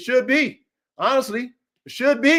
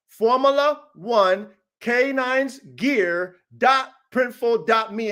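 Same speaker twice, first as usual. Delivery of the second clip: slow dictation; slower than usual. Shown as a demonstration. Coach dictating the store address to viewers, slowly and clearly. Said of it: "Type it in exactly the way I say".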